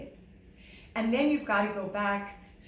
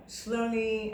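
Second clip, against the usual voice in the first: said slowly. Shown as a demonstration. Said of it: "I said it slowly".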